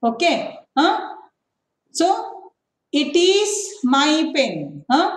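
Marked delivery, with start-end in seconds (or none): 3.0-4.5 raised pitch, a little louder for the example; example read out. Shown as a demonstration. Teacher reading an example sentence to the class. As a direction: set the example sentence apart. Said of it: "ant keltira".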